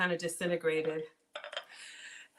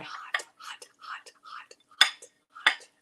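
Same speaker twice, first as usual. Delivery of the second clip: breathy hot hot through a hot bite; fanning a burning mouthful; mouth full of hot food; slower than usual. Real, not acted.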